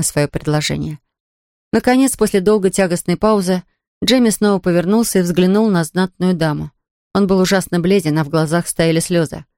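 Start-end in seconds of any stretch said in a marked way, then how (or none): none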